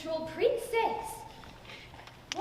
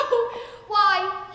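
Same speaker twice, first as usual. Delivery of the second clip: mocking laugh; 3 semitones higher, 7 dB louder than usual. Troll Princess mocks the girl.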